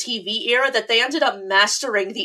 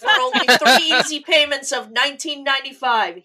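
pushy TV pitchman voice; infomercial; 3 semitones higher than usual. Pretend. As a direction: sell it like a late-night ad. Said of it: "I was so expecting to hear out of nowhere".

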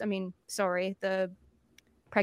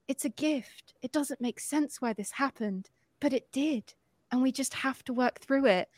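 soft, measured mock reassurance; imitating a calmly consoling husband; soothing husband; 6 dB quieter than usual. Husband soothing his upset wife.

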